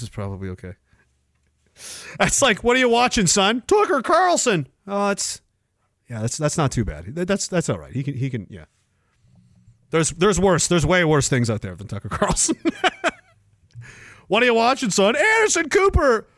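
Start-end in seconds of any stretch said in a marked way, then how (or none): 2.6-4.7 mock sitcom exchange, rising to a high reply; acted father-son exchange. Acted parent and son joke. 14.3-16.3 hammed-up question with a much higher answer; mock exchange jumping to a high-voiced reply; acted father-son exchange. Acted parent and son joke, second round.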